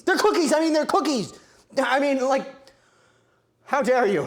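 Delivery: high, loud indignant outburst; outraged protest. Real, not acted. Baker defending the cookies against insult, loud indignation.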